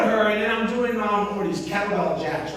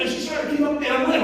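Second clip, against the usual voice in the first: ordinary talk, nothing marked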